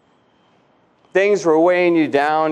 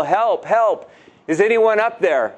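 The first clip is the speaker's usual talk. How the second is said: calling for help; 4 semitones higher than usual. Retold or imitated. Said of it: "began to yell".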